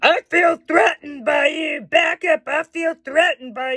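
high screaming. Recounting a maskless man yelling at an elderly shopper, retelling a man screaming. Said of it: "he starts screaming".

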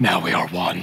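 very deep, hushed put-on voice. Trying on costumes in a costume shop on camera, he speaks in a deep voice. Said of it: "[in a deep voice]".

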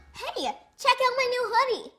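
sharp gasp into words. Someone shows off a new hoodie, gasping.

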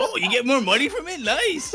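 very high, very loud, greedy, money-hungry voice. Mocking the other player as a capitalist: imitating a greedy capitalist. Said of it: "My dude's such a capitalist".

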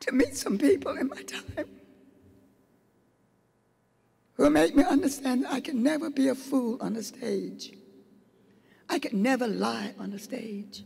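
tearful speech, crying while talking. Speaker tells an audience about people she met in her time, crying while speaking.

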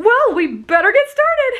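very high, panicky squeaked-out words. A man hurriedly gathering cookware, squeaking in a high-pitched, panicky way. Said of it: "He squeaked out in a high-pitched, panicky sort of way".

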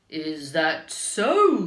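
very loud, sly, sneaky, swooping wolf voice. Reading a story aloud, the wolf replies slyly to the girl who was warned about him. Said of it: "The wolf asked slyly".

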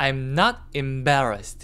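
strong stress on not. Explaining English sentence emphasis in Korean: strong stress on "not". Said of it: "보통 아니다라는 낫은 강세를 많이 주는 편이에요".

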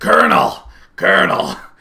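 very deep, loud, booming voice, swooping. Showing the voice someone said sounded like Solid Snake: Solid Snake voice. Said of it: "sounded a little bit more like Solid Snake from Metal Gear Solid".

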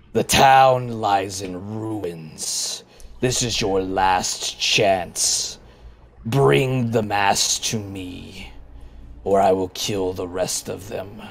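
deep guttural voice echoing from above. Storyteller voices a voice echoing around the players, deep guttural voice. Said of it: "it's deep and guttural and familiar".

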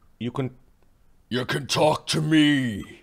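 powerful booming voice. Voicing a character who speaks up to the others, in a booming voice. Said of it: "He says with a booming voice".

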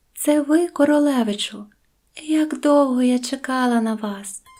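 gentle, tender tone. A princess, just awakened, speaks to the prince beside her: tender voice. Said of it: "спитала юнака ніжним голосом".

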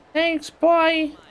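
very high-pitched, cutesy character voice.

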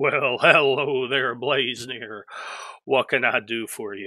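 put-on talking-horse character voice. Doing the horse voice when speaking for the horses, Mr. Ed horse voice. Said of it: "when I do the horse voice, it sounds like Mr. Ed".

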